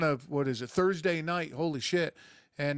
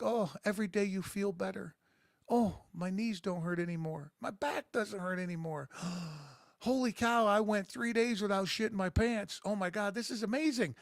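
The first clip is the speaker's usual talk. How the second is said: mock amazement; 5 semitones higher than usual. Acting out delighted patient growing younger.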